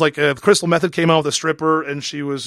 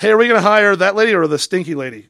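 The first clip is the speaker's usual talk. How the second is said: mock casting boss; 3 semitones higher, 4 dB louder than usual. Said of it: "imagined hiring boss".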